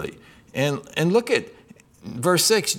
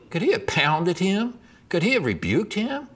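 ordinary delivery

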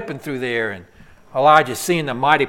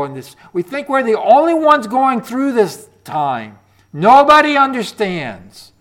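louder, impassioned complaint; anguished lament; 3 semitones higher, 7 dB louder than usual. Acted. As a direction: cry out as the discouraged prophet. Voicing Elijah's lament, loud.

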